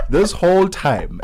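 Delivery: laughing through the words; breathy high laugh, then words. Real, not acted. Host laughs at own mistake.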